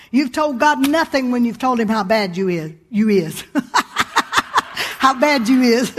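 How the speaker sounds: chuckling through the words; laughing. Real, not acted. Preacher laughing at her own joke to the congregation. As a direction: laugh while you land the line.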